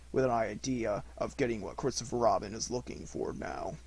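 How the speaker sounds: lightly voiced mournful Eeyore; gloomy donkey.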